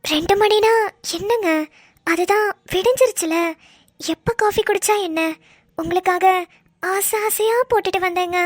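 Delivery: sugary, mock loving; sweet with a sly edge; syrupy wife voice. Wife insists on coffee at 2 am, sugary. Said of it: "நார்மலா பேசுடி".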